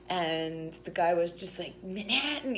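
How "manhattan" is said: half-voiced impression of a shouting drunk; imitated screaming. The guy who just kept on, mock screaming. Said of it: "he's just screaming".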